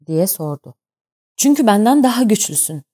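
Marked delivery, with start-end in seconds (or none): 1.4-2.8 angry retort, higher and louder; angrily. A narrator's reading. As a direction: snap back in anger. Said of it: "dedim öfkeyle". (öfkeyle, yüksek sesle)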